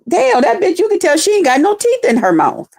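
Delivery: mocking gossip. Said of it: "we was like".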